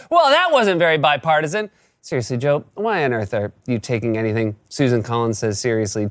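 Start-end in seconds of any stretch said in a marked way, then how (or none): 0.1-1.7 raised-pitch mild yell; mock yell. Neighbor to fallen kid, mild mock yell. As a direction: call it out indignantly, hammed up a little. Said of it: "and yells".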